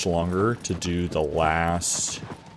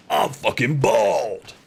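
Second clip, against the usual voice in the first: higher, drawn-out holler; sudden outburst; 5 semitones higher, slower than usual. Pretend. Streamer blurting a silly confession mid-chat, sudden high holler. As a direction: blurt it out high, stretching the last word.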